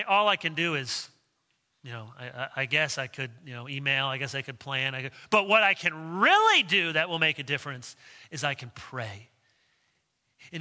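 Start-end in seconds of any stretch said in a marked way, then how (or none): 0.0-9.3 mock hesitant musing. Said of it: "Be better to say".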